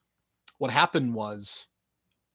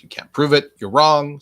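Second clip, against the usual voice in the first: defiant retort; 3 semitones higher, 9 dB louder than usual. Real, not acted. Arguing with imagined commenters.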